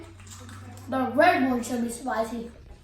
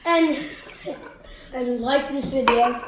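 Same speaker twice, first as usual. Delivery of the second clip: loud outro; 3 semitones higher, 5 dB louder than usual. Real, not acted. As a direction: call out to subscribers.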